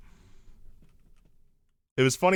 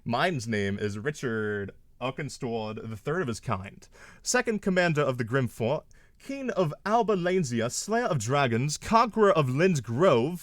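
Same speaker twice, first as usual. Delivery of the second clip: grand royal title; 3 semitones higher, slower than usual. Pretend. Reciting a grand made-up title.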